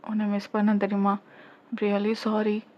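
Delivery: tender apology. Acted. Tender apology during a hug.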